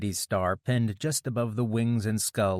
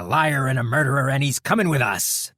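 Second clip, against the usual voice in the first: yell; 5 semitones higher, 7 dB louder than usual. A narrator's reading. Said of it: "the Martin Hale man yelled".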